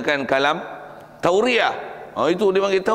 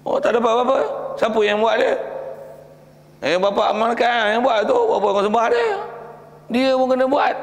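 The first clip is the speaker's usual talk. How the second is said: excited villagers; 7 semitones higher than usual. Acted. Acted dialogue between buyers.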